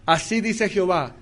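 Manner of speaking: slow, weighty prophetic announcement; a hint of the thundering prophet, drawn out; solemn prophet proclamation. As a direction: declare it like a prophet of old, slowly. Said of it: "cuando el profeta decía".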